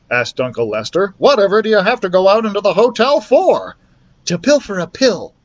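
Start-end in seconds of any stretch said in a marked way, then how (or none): 1.2-3.8 high, louder indignant mouse voice; Uncle Lester. A narrator's reading. Uncle mouse questioning Ralph's plan, indignant high voice. 4.3-5.3 dramatic Ralph. A narrator's reading. Ralph announcing his daring mission, dramatic mouse voice.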